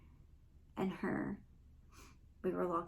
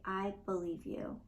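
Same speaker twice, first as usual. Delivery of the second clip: sincere reassurance. Shown as a demonstration. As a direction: say it gently so she feels believed. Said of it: "take a moment and say".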